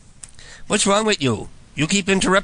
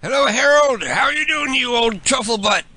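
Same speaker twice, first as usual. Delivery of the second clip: higher, overly friendly fake pal; chummy prank caller; 7 semitones higher than usual. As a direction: greet him like an old buddy he's never met. Prank caller playing a fake persona.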